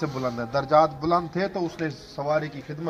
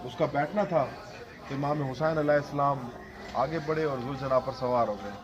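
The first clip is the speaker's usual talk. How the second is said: mournful preaching recital, rising in grief; majlis narration. Acted. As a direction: recite the tale to move mourners to tears. Zakir narrates Karbala majlis. (غمگین مجلس خوانی)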